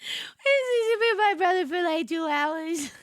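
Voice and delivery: words squeezed out through laughter; cracking up mid-sentence; laughing through it. Real, not acted. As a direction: laugh helplessly as you say it. Retelling while laughing.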